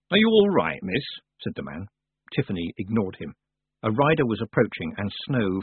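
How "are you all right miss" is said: high, louder anxious question; lightly voiced worried countryman; concerned villager. A narrator's reading. Village man checking on Tiffany, concerned.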